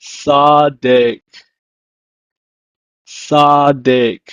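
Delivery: tzaddik said "tsah-deek" twice; Hebrew word. Shown as a demonstration. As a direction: model "tzaddik" then repeat. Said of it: "it's pronounced in Hebrew as".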